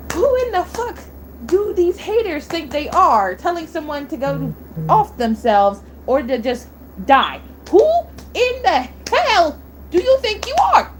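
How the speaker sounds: angry rant. Real, not acted. Ranting at haters of her idol.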